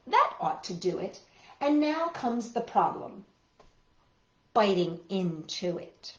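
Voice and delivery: bouncy recited rhyme; poem reading. Acted. Children's entertainer reciting a silly poem to kids. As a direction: recite it like a playful kids' poem. Reads a hippo sandwich poem.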